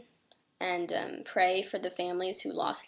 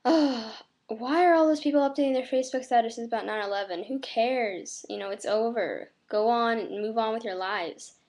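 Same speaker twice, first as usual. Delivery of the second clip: mock dismissive; 3 semitones higher, 4 dB louder than usual. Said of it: "before you go off and say".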